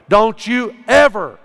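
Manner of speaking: loud, hard warning, stressing ever; a pastor sternly forbidding praying to angels. Real, not acted. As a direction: bark the warning at the congregation. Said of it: "Hey, let me stop right there".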